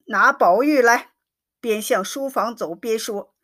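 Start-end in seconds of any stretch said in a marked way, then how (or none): 0.1-1.1 a louder shouted summons; mild mock yell for the servants; loud roar. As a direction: shout for the boy, read-aloud strength. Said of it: "大喝".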